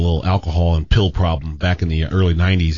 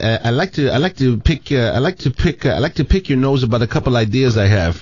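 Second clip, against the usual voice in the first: higher-pitched, halting French-accented impression; 5 semitones higher than usual. Host mimics French manager fumbling an idiom, halting French accent. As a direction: imitate a French boss groping for an English idiom. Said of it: "this is the guy that called me".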